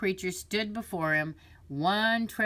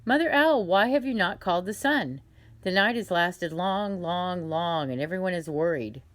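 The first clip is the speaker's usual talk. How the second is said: lion king; 5 dB louder than usual. Acted. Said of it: "King Lion asked".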